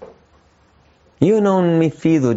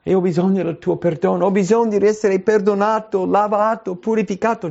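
higher, earnest humble prayer; humble plea; 8 semitones higher than usual. Acted. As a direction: beg forgiveness sincerely. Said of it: "Quando mi umilio". (supplica umile e sincera, voce più alta)

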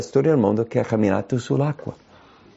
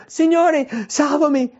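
a sinking man calls to the Lord; crying out. Acted. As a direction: Peter cries out as he sinks. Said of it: "gridò dicendo".

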